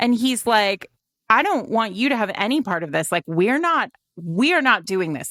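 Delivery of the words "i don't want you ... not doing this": put-on worn-out, fed-up, exasperated man's voice. Speaker recounts a man arguing with a woman: mock-exasperated man. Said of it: "like pure exasperated man vibes".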